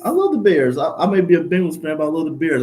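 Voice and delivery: high, loud, eager insistence; emphatic fan enthusiasm. Real, not acted. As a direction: protest loudly that you really do love them. Insisting on love for the Bears.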